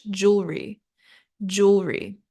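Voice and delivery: "jewelry" as two syllables, jool-ree, British style; British "jewelry" with no middle vowel; British pronunciation. Shown as a demonstration. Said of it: "or British".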